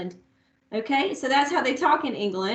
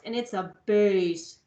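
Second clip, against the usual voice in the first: lowered and slowed on bass; low bass voice; 4 semitones lower, 4 dB quieter than usual. Shown as a demonstration. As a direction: drop the voice for the biggest recorder. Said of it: "the biggest one is the lowest".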